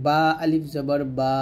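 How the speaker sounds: slow spelling, বা held long; lip-made madd. Shown as a demonstration. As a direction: press lips, then stretch বা. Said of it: "বাটা দুই ঠোঁটের ভিজা অংশ".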